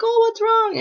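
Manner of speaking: lightly voiced worried mother, pitched high; concerned mom. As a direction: imitate a mom checking on her child.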